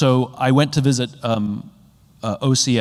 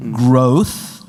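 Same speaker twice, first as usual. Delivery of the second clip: louder, questioning "Growth?"; mock disbelief; 6 dB louder than usual. Speaker mocks a company whose vision is only growth, with loud disbelief. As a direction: push the word back as an empty answer.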